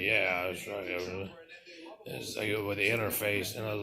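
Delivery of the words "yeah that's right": slow, low, self-satisfied yeah; smug agreement. Acted. Answering the voice of reason compliment, slow and smug. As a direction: drawl it out like you've been proven right. Acted smug reply to praise.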